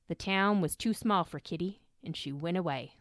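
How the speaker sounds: a clumsy, half-hearted Southern accent on a retold quote; lightly put-on Southern farmer voice, done badly; terrible Southern accent. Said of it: "That's a terrible, terrible accent".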